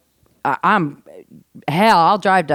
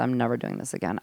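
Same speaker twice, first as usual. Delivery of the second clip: mild retold crying; 7 semitones lower, 10 dB quieter, faster than usual. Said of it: "I just started crying".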